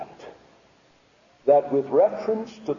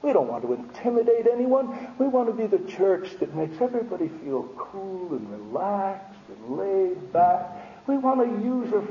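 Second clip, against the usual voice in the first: mock-apologetic people-pleaser; sarcastic imitation of an over-polite apology; 4 semitones higher than usual. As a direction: apologize meekly, with obvious sarcasm. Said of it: "You say you're being sarcastic".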